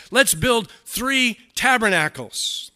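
high, loud, slow announcement; eager proposal. Acted. Peter speaks up out of turn, eagerly proposing. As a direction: call out a big idea eagerly.

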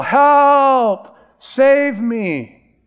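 high, loud cry for help; a drowning man hollering for rescue; desperate yell for help. Retold or imitated. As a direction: shout it like you're going under. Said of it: "you would yell".

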